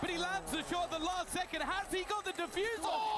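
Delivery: high, loud hype yell; excited shout. Real, not acted. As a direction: erupt as the clutch lands. Clutch round won, caster erupts.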